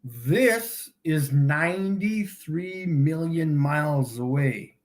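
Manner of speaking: deliberate slow repeat of the distance. Shown as a demonstration. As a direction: say it again slowly, as if to a child. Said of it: "I'll say it again slower".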